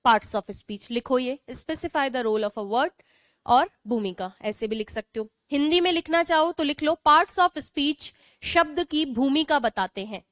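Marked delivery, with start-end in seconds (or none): 1.5-2.9 slow, spaced dictation of the definition. Shown as a demonstration. Teacher dictating slowly to her students. 7.1-8.1 each word drawn out for writing; slow dictation. Shown as a demonstration. Teacher dictating the Hindi definition slowly.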